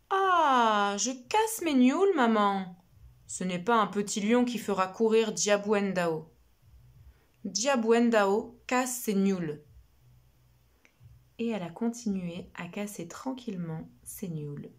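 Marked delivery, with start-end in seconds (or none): 0.1-9.6 put-on stubborn girl. Little girl refusing her mother, carefree and stubborn. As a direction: brush off the warning proudly.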